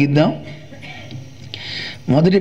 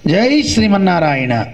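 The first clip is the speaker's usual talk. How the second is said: said out boldly; 3 semitones higher than usual. Shown as a demonstration. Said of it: "చక్కగా నోరు విప్పి చెప్పాలి".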